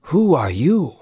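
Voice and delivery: sharp, displeased question; cross. A narrator's reading. Blind father demands who stands before him, cross. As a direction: snap the question at the stranger. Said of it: "he answered crossly".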